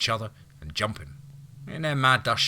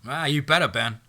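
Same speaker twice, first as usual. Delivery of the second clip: yelled; 6 semitones higher, 5 dB louder than usual. Acted. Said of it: "Somebody behind her yelled".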